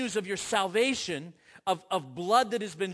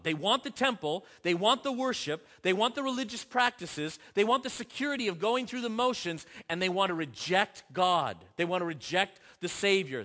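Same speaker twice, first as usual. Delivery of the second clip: building preacher's accusation; 2 semitones higher, 5 dB louder than usual. Real, not acted. Preacher indicting the crowd, louder with each line. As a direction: pound the list of what they want, rising.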